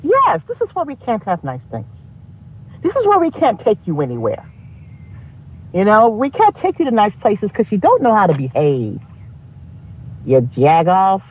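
put-on scolding in a Pittsburgh accent. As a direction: lay into them like a Pittsburgh parent. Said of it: "you sound like you're from Pittsburgh".

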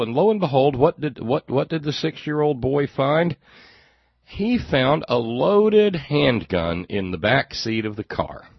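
high, loud storyteller's build-up; dramatic mock-suspense. Real, not acted. Host revealing what the six-year-old found, in loud mock suspense.

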